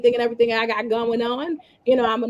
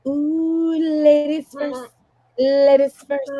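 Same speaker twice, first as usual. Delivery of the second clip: sing-song announcer; 5 semitones higher, 5 dB louder, much slower than usual. Acted. Host sing-song announcing ladies.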